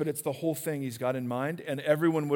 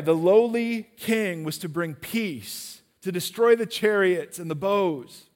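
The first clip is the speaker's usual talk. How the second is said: mournful scripture reading. Acted. Reads Jesus' lament over Jerusalem.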